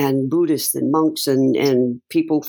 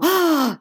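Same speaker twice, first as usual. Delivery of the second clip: high quick gasp of surprise; sharp gasp; 13 semitones higher than usual. Shown as a demonstration. Showing the host how you gasp in surprise, sharp gasp. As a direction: show a sudden startled intake of breath. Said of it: "you just go".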